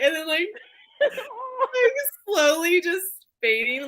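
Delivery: laughing while telling. Real, not acted. Mom retelling her son's Santa photo, breaking up laughing. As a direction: voice cracking with real laughter.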